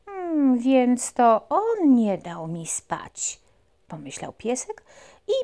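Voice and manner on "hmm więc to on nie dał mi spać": high, slow little puppy musing. Acted. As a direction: think it over like a small puppy. Puppy's thoughts voiced.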